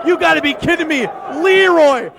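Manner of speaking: ordinary delivery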